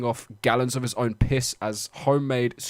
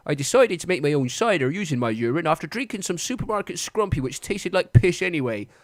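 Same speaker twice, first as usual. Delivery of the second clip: broad West Country accent, a bit higher; 6 semitones higher, 3 dB louder than usual. Shown as a demonstration. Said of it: "in a West Country accent".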